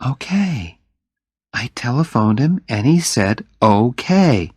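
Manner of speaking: Jenny, casual and unbothered; lightly voiced Jenny.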